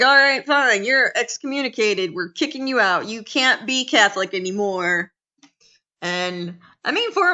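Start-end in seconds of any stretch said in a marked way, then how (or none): 0.0-5.1 exasperated Pope. Retold or imitated. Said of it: "the Pope was like".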